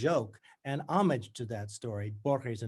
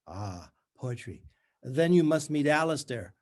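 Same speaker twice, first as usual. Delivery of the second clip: strangulated bright voice; 5 dB louder than usual. Acted. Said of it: "In her strangulated voice".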